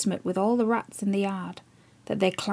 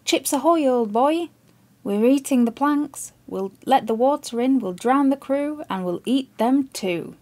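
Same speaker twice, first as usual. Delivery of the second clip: rat calling out; 4 semitones higher than usual. Acted. Talking rat taunting Chips from the figurehead, higher gleeful call. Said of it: "it called out to him".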